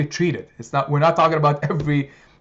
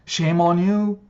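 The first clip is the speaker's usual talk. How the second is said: louder, higher, hammed-up scolding; mock scolding; 3 semitones higher, 4 dB louder than usual. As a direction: lecture like a mocking critic. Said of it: "condemn him and say".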